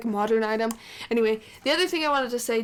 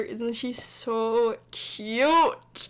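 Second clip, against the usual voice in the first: gushing; much slower than usual. Real, not acted. Gushing over baby toddler.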